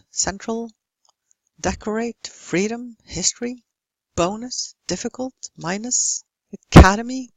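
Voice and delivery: "about, around, asleep" with a faint uh before the stressed syllable; schwa in unstressed syllables. Shown as a demonstration. Teacher reading out examples, "central, decorate, freedom" with reduced weak syllables. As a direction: reduce unstressed vowels to schwa, as in "famous, dangerous". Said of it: "And in unstressed syllables".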